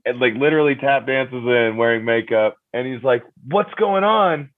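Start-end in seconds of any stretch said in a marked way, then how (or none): 3.5-4.5 put-on high, slow, chirpy kid greeting; much higher mock kid voice; imitating the kid. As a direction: play the cheerful little kid stretching each word. Kid voiced in retold scene.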